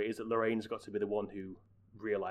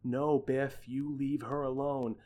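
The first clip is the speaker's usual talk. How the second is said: George; 2 semitones higher, slower than usual. Retold or imitated. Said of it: "the way he says".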